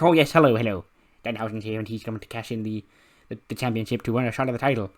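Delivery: lightly theatrical greeting; Danhausen. Acted. Danhausen arriving at the arena, lightly voiced theatrical greeting. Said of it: "after doing the Danhausen voice".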